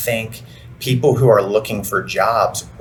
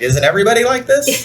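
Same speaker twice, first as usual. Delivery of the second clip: much higher, imitating an enthusiast; mock enthusiasm; 12 semitones higher than usual. Host imitating the guest's outlook back to her, enthusiastically. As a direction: playfully mimic someone's eager question. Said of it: "you say it so enthusiastically".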